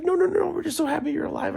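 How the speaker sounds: put-on very high, loud girl voice; relieved hippie girl. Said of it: "She's like".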